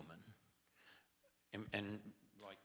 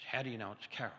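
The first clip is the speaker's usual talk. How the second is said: angry tones; 4 semitones higher, faster than usual. Retold or imitated. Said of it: "In her angry tones".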